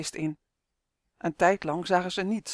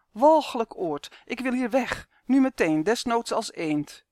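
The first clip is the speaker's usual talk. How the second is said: higher, buzzing little creature voice; buzzing elf voice; 4 semitones higher than usual. Acted. Uf complains to Justin, buzzing voice. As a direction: hum it like a tiny fed-up insect. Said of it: "zoemde hij".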